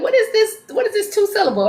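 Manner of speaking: high, puzzled questioning; puzzled ask. Retold or imitated. Psychic puzzling over a spirit's nickname, high puzzled ask. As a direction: press for the odd nickname. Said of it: "I'm like".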